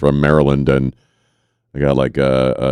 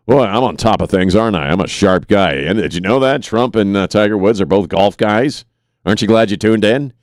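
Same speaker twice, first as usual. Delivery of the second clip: slightly higher, mock-smug host boast; self-mocking; 4 semitones higher than usual. Host mocks own golf remark to listeners, self-mocking. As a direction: play up being pleased with your own obvious insight.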